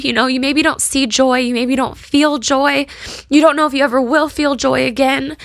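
pushing through real tears; tearful. Real, not acted. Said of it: "I just got emotional".

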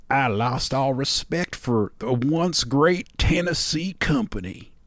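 slow, lightly voiced old Southern man; a hint of a disappointed old man, slowly; older man. Host voices an older Tennessee commenter, slow mock Southern accent. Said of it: "That's an older man".

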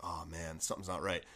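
dropped low and soft, sinking realization; hushed dread. Retold or imitated. Realizing he missed practice, a low soft mutter. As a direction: mutter it to yourself under your breath, low and soft. Retold inner dread on arrival.

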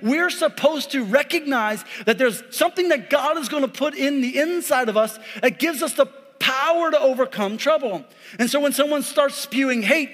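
fired-up sermon delivery; rising, emphatic preaching voice. Acted. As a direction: preach it to the congregation. Preaching at full force.

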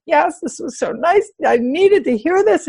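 high, drawn-out mock crying voice; imitated tearful voice. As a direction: imitate someone getting words out between sobs. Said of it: "she was in between crying".

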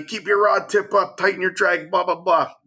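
mock yelling. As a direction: imitate someone yelling orders, without real volume. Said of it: "He's yelling at me".

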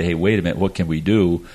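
ordinary talk, nothing marked

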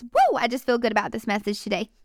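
clinking bangles under the speech; bracelets jingling. Real, not acted. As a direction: bracelets jingling as she talks. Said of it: "Sorry if you hear my bracelets jingling".

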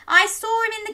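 lightly voiced girl insisting; insistent cry. A narrator's reading. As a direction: make them believe you. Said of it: "cried Daisy".

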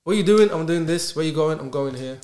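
brisk question, firm immediate answer; confident. Acted. Someone who knows themselves answering questions, confidently. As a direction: answer decisively, no hesitation. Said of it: "That's confidence".

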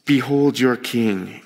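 slow, understated mockery; mock them with measured words; a touch of slow mockery. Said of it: "And he's mocking them".

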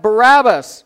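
loud, high shouted answer; shouting back. A narrator's reading. Crowd answering the governor's question, shouting back. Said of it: "the crowd shouted back".

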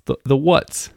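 lightly voiced British slang; a playful stab at a British accent. Shown as a demonstration. Mocking British slang to his climbing friends, in a light British accent. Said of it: "if you gotta do it with the accent".

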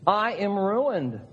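high, slow anguished cry; Isaiah in despair. Acted. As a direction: lament your own ruin. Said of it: "He says".

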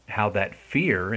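"fear" drawn out slowly for emphasis; stress on fear. Real, not acted. Speaker explaining the dread of exclusion, stressing "fear". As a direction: lean on the word "fear", stretching it. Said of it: "I emphasize that word fear".

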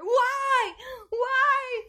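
high, loud imitated child tantrum; tantrum wail. Mom imitating her daughter's meltdown over the invitation. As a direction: wail like a furious preschooler. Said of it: "she lost it".

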